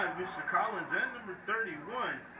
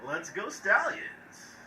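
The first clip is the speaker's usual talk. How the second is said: smiling voice; slower than usual. Shown as a demonstration. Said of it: "let me show you how it sounds".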